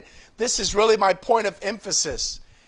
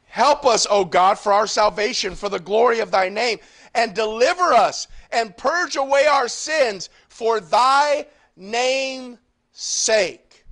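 shouting out. Retold or imitated. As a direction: cry out to God for help. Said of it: "Now he's shouting out".

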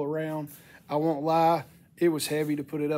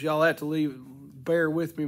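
hoarse, cracking voice from a sinus infection. Real, not acted. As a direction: voice breaking up, sick. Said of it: "My voice is cracking out".

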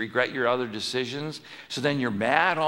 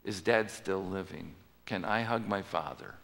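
softer, lower tender questions; tender longing; 4 semitones lower, 6 dB quieter than usual. Acted. Joseph asking tenderly about his father, softer. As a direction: ask gently, full of longing. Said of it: "What's his response?".

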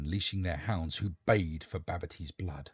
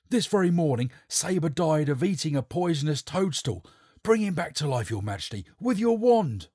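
captain's loud challenge; 7 semitones higher, 6 dB louder than usual. Acted.

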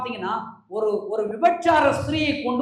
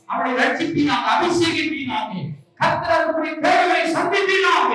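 loud, ringing prayer that swells to shouts; fervent prayer; 3 semitones higher, 6 dB louder than usual. Acted. Preacher praying over the youth camp, shouting with fervour. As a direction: pray aloud over the whole camp.

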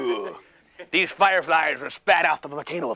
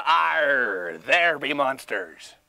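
pirate voice; much slower than usual. Shown as a demonstration. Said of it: "you go".

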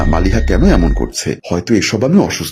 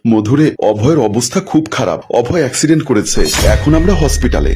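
tearful voice; 2 semitones higher than usual. Acted. Mother-in-law phones with news of her son's accident, mildly tearful. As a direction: break bad news with a touch of tears. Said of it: "কান্নাজড়িত কণ্ঠ ভেসে আসলো".

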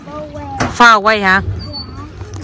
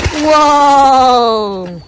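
excited wow; 3 semitones higher than usual. Real, not acted. Child just jumped into water.

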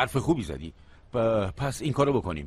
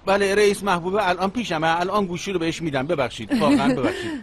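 hammed-up call that never rang; fake phone call; 3 semitones higher than usual. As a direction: pretend answering a phone, higher and brighter. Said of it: "کسی زنگ نزد".

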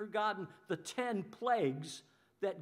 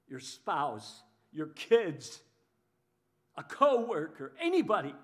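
loud list; 3 semitones lower, 8 dB louder than usual. Retold or imitated. Listing targets of blame.

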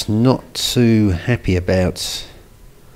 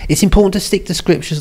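put-on woman's voice; 9 semitones higher, 4 dB louder, faster than usual. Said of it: "I'm gonna read it in a woman's voice".

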